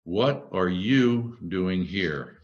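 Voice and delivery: slow, measured, each word given room; deliberate question. Acted. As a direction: draw the question out slowly. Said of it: "a lot of fun with the inflection".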